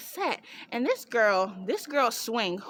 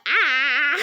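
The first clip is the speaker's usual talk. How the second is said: startled gasp; 4 semitones higher, 7 dB louder than usual. Retold or imitated. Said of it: "they're like".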